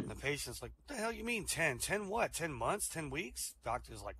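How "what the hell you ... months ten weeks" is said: mildly alarmed, higher-pitched questioning; acted bewilderment. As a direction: play a patient baffled by the prognosis. Patient hears he has ten to live.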